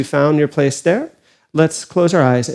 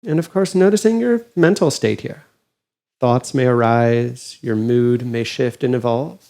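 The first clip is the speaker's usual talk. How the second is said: calm, unhurried meditation guide with long pauses; guided meditation. Acted. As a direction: gently guide them inward, leaving space between phrases.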